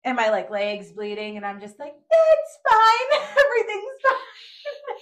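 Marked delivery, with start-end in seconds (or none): 2.0-5.0 high, loud strained brave face; forced cheer through pain. Retold or imitated. Bleeding leg, insisting to friends it's fine, strained. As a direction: laugh it off while hurting.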